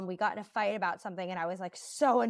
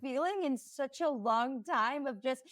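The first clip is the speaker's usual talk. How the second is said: giddy excitement; 5 semitones higher than usual. Retold or imitated. Retold giddy thrill.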